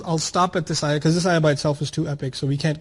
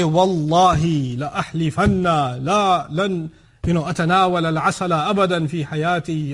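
mock solemn oath; 3 dB louder than usual. Husband mockingly vowing to his wife, loud and solemn. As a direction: swear it like a grand pledge. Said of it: "He doesn't say".

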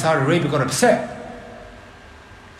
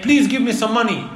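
higher-pitched, lightly voiced child; pleading child; 6 semitones higher than usual. Child running up to ask for money, lightly voiced pleading. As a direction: lightly imitate a child begging. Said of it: "a child comes running towards you saying".

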